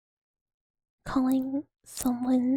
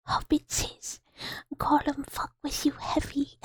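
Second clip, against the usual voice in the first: bad Gollum voice; 3 semitones higher than usual. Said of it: "a really bad one".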